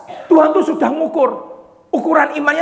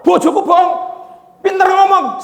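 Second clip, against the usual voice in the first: higher, louder rising accusing yell; wife screaming during the service; wife shouting; 8 semitones higher, 4 dB louder than usual. Acted. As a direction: heckle the preacher loudly. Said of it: "Lu ini teriak-teriak".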